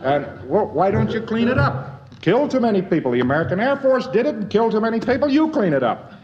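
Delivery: a hint of an aggrieved local pointing at the rubble; mock German complaint. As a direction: act out a German grumbling at the visitor.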